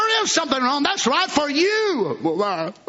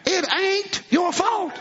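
slow shout; 5 semitones higher, slower than usual. Shown as a demonstration. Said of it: "Everybody say it with me".

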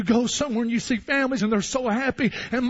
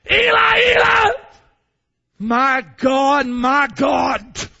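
Jesus crying out from the cross; crying out to God; 2 semitones higher, 7 dB louder, much slower than usual. Acted. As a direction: wail it like a dying man. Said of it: "he spoke in tongues".

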